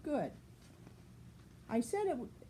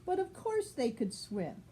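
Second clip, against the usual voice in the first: put-on clear, even read-aloud voice for a child; storybook reading. A narrator's reading. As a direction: read it like a bedtime picture book. Reads picture book to child.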